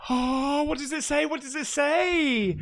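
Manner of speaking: urgent repeated question; anxious urgent. Real, not acted. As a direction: press for an answer, anxious.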